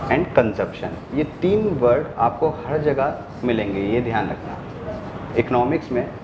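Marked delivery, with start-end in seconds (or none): 0.1-1.1 teacher spells out the last key word slowly; slow dictation. Shown as a demonstration. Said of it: "dictating the third key word".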